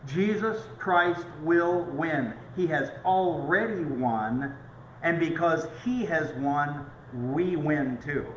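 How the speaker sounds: triumphant proclamation. Acted. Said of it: "I'm gonna give you a spoiler".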